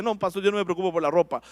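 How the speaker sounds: fast, soft mock protest of a listener; mock excuse. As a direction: toss off the excuse quickly. Voicing a congregant's excuse. (excusa burlona y rápida del oyente)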